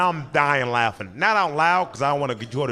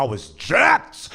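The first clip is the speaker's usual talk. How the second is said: proud brag; 3 semitones higher, 4 dB louder, much slower than usual. Real, not acted. Bragging about his size.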